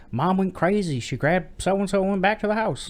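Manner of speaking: high-pitched retold panic; mock alarmed kids. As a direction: imitate kids urgently reporting trouble. Children frantically report mom.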